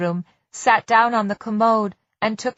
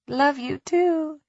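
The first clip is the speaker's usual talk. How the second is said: smiling; 6 semitones higher, slower than usual. Acted. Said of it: "she said, smiling".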